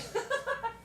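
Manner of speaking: high giggle; light high-pitched chuckle; laugh. Real, not acted. Streamer making sure she is covered, giggling. Amused while covering up on camera.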